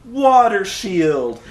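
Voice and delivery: very slow, drawn-out shield call; deadpan mock move call. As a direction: say it like a bored fighter blocking again. Mocking the movie's fight dialogue.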